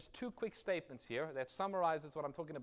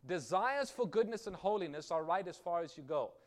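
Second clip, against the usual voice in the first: reading the quote; 6 dB louder than usual. Shown as a demonstration. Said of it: "this is what it says".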